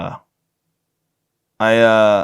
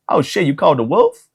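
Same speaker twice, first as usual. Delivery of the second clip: Samuel L. Jackson; 5 semitones higher than usual. Retold or imitated. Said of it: "the most racist Samuel L. Jackson impression".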